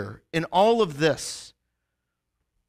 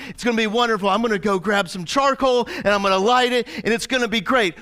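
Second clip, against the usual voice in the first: higher, eager party invite; excited bragging; 5 semitones higher, faster than usual. Retold or imitated. Peter invites everyone over, excitedly talking up the grill. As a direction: talk it up like a cookout host. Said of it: "He goes".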